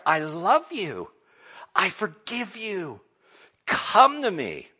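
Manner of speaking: preaching God's call at full force; proclaiming. Retold or imitated. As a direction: declare it over the crowd. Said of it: "he declared".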